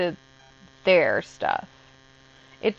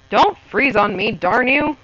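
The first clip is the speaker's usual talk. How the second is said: annoyed outburst; 3 semitones higher, 4 dB louder than usual. Real, not acted. Scolding a frozen PDF.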